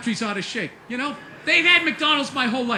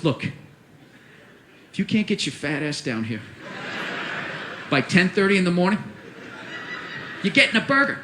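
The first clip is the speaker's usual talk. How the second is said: menacing clown; 8 semitones lower, 4 dB quieter than usual. Acted. Clown threatens down the camera.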